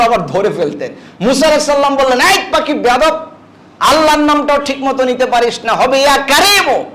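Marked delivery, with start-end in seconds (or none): 2.2-6.8 scolding the bird. Acted. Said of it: "ধমক যখন পাখি দিছে".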